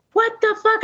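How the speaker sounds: high startled yell; screaming into the night at an empty porch; retold scream. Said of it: "I think I even screamed".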